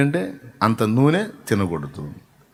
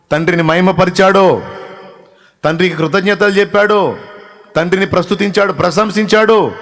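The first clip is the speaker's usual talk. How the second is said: rising higher and louder list; building preaching; 5 semitones higher, 6 dB louder than usual. Acted. Preacher listing how Jesus honoured the Father, building to a loud peak. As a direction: climb each line toward a fervent peak.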